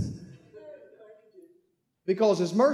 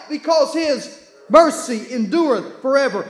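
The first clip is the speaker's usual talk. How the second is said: preaching shout; 3 semitones higher, 3 dB louder than usual. Real, not acted. Preacher calls answer to congregation.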